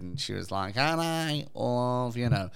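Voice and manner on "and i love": lightly voiced singer with drawn-out words. Telling co-host about the game show, lightly mimicking the presenter. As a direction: stretch it out like a crooning entertainer. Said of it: "as the presenter did".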